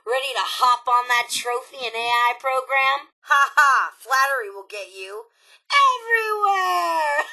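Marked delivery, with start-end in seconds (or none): 3.3-7.3 coy then gleeful; playful tease. Acted. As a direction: tease them with a cheeky payoff. Playful teasing of the player.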